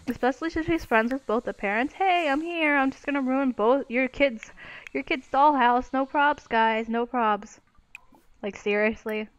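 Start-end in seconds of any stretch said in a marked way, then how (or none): 1.9-7.6 higher, sarcastically breezy guest; mocking imitation of careless guest. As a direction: play the oblivious guest with mock nonchalance. Mockingly voices the careless houseguest.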